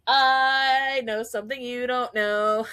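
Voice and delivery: mock teasing aunt; teasing singsong. Aunt hinting at a secret to her niece, lightly imitated teasing. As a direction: tease in a lightly sing-song chant.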